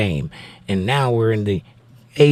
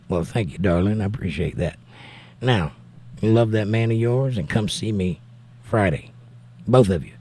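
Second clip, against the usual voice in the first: warm; 3 semitones lower, 4 dB quieter than usual. Real, not acted. Thanks viewer's wife for compliment.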